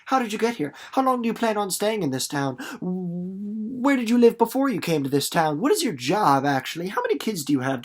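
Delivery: teacher acting out someone prying with questions, mock-nosy; nosy questioner. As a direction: fire off nosy questions like a snoop. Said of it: "if you said to 'em".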